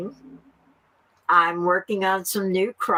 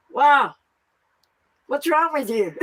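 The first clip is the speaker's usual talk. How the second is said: high, amused jab at herself; mock scold yourself with a laugh; laughing self-scold; 8 semitones higher than usual. Woman scolding herself on waking, laughing.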